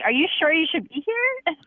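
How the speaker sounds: concerned question, lightly re-enacted; retold concern. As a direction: quote yourself checking with mild concern. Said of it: "I was so concerned".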